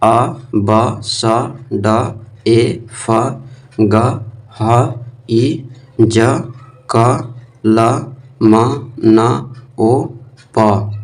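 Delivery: letters read as sounds, "ब" for B and "स" for C; phonic letter sounds. Shown as a demonstration. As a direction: say "अ, ब, स, ड" as letter sounds, one at a time. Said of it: "ऐसे, अ, पढ़ना है आपसे".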